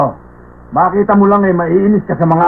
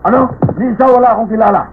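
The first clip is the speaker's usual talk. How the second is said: higher, indignant retort; irritated, pitched-up comeback; angry denial; 4 semitones higher than usual. Acted. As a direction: deny it hotly, offended by the question. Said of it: "ba't nagagalit kayo".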